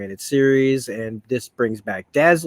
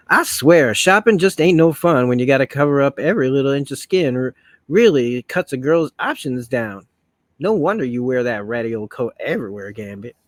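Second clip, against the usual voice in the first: put-on comic-book Southern belle accent, punchy opening; Rogue, Southern accent; 4 dB louder than usual. Complaining to Gambit about shopping, in a Southern accent. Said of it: "I'm trying to sound like Rogue".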